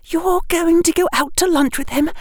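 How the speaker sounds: a worried schoolgirl warning him; Hermione voice. A narrator's reading.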